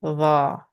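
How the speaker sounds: "La" as a thickened th from "this"; thick, heavy sound. Shown as a demonstration. Teacher compares it with English words, heavy sound. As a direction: start like "this", but make "La" heavy. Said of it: "but it's thick and heavy".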